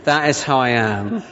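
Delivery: slow, prim "the response is 'fine'"; mock stern correction. Preacher reminding a friend of the rule, mock stern. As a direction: correct them like a stickler, slowly. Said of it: "So I had to remind them".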